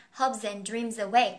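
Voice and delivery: "Hopes and dreams away" slow, as hope-zand dream-zaway; linked z sound. Shown as a demonstration. Teacher repeating the z link for learners, "Hopes and dreams away" slowly joined. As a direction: let the z slide into each next word in "Hopes and dreams away". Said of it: "Âm z nhá".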